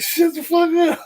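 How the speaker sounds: telling the scared friend to shut up, loud and high; sharp yell. Retold or imitated. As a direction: bark it down at him.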